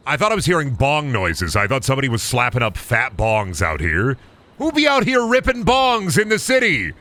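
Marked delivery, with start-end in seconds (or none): 4.6-6.9 high goofy mock voice; silly high voice. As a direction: ham up a silly stoner question. Mock voice about bong noises.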